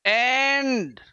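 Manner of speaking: एंड with the open e of English "end"; pronunciation demo. Shown as a demonstration. Teacher modelling एंड for students, careful pronunciation. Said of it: "अब उच्चारण कैसे करेंगे".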